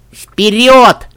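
loud, high rallying cry; excited command. A narrator's reading. Little sister on her brother's back, gleefully commanding. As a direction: call out eagerly to charge.

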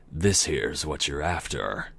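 slow southern drawl as Death; slow, easy southern accent for Death. Acted. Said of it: "random southern accent".

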